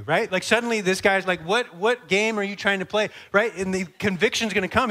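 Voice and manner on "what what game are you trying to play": raised, louder challenge in mock indignation; getting mad. Baffled soldier confronting the pack carrier, getting mad. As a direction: push up in pitch and volume, demanding an answer. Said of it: "He's gonna start getting mad".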